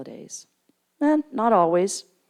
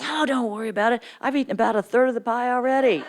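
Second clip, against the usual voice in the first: laughing mom; 6 semitones higher, faster than usual. Retold or imitated.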